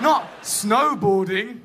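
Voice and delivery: low, slow glum. Shown as a demonstration. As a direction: say it cold and miserable. Shivering reality.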